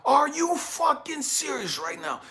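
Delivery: dad outraged at his daughter's news; outraged disbelief. Retold or imitated. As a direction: hit them with angry disbelief.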